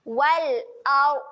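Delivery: "ard" with rounded lips, a thick ra; heavy ra. Shown as a demonstration. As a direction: round the mouth on "Wal ard". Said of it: "Dia kena muncung". ("Wal ard" muncung, ra tebal)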